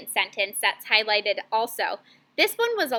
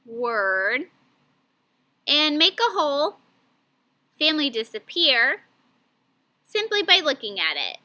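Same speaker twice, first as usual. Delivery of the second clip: choppy chunked reading. Shown as a demonstration. Teacher demoing badly chunked reading to class. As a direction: read it in awkward chopped-up pieces. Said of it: "that was kind of hard to understand the way that I chunked those words together".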